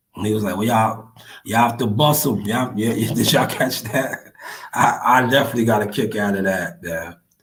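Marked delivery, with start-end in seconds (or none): 0.6-2.5 heavy, imitated, put-on Jamaican accent. Quoting a man giving instructions, heavy jamaican accent. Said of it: "he had the heavy Jamaican accent".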